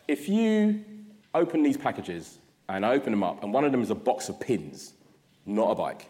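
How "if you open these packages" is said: put-on Ghanaian accent. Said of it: "I do a very bad impression of her accent".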